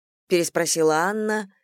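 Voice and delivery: ordinary delivery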